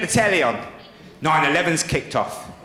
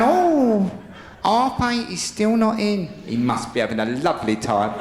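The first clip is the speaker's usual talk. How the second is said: mock sweet wife; 2 semitones higher than usual. Imagining his wife waiting up, mock sweet. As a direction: play the impossibly reasonable wife.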